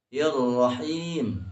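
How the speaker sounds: Ir-Rahim slow with the R held; held doubled R in Ir-Rahim. Shown as a demonstration. Teacher showing the third syiddah, held R in Ir-Rahim. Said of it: "menahan suara".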